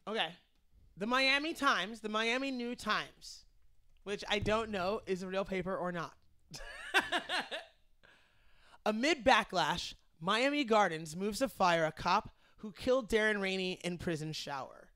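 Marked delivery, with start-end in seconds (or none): 1.0-3.4 newscaster voice. Shown as a demonstration. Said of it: "How was my newscaster voice?". 8.8-14.9 newscaster voice. Shown as a demonstration. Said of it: "How was my newscaster voice?".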